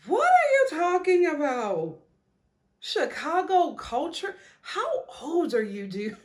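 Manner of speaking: laughing mockery. Real, not acted. Mocking Chris's excuse.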